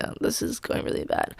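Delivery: low, soft whispered aside; despairing whisper. Retold or imitated. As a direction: mutter your doom under your breath. Awkward silence after hey.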